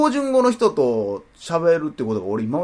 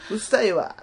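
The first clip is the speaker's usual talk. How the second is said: put-on cute Kansai girl; 6 semitones higher than usual. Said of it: "可愛い声で言われても".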